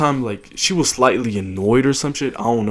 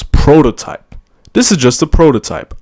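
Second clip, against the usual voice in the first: stoned; 4 semitones higher, 7 dB louder than usual. Retold or imitated. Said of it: "So I wrote down in my notes".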